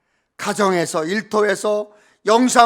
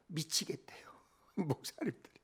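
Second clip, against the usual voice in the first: hushed confession; 6 semitones lower, 20 dB quieter than usual. Retold or imitated. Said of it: "제가 있는 그대로 표현할게요".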